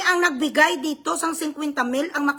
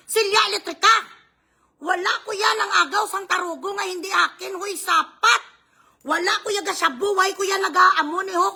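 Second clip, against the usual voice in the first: heated raised voice; angry rant; 3 semitones higher than usual. Real, not acted. A vlogger shouting down her bashers in anger. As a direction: lash out at the bashers.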